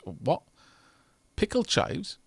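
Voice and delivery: can't believe what you read; incredulous. Real, not acted. Streamer reacting to odd food, incredulous.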